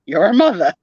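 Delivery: "mother" as "mutha", New Jersey accent; New Jersey curse. Shown as a demonstration. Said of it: "that's how I use it when I curse".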